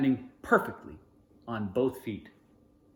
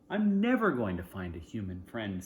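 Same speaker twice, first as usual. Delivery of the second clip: glum to himself; 4 semitones lower than usual. Acted. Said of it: "Sebastian says to himself".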